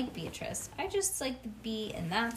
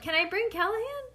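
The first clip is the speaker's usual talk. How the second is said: much higher, eager begging; squeaky kid question; 10 semitones higher, 4 dB louder than usual. Retold or imitated. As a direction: ask like a hopeful little kid. Mocking asking about horse.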